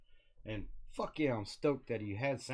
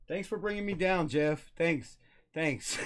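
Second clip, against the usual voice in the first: higher, mock-grateful jab breaking into laughter; sarcastic thanks; 4 semitones higher, 3 dB louder than usual. Real, not acted. Streamer blames Jeff for bringing him down, sarcastic thanks.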